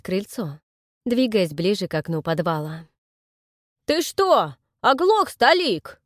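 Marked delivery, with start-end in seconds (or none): 3.8-6.0 high, loud mocking bark; loud rough bark at an old man; barking thug. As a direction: snap at the deaf old man. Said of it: "рявкнул картавый".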